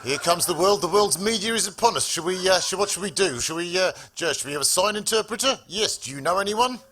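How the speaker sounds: put-on South African accent. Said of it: "Should we talk in this funny accent".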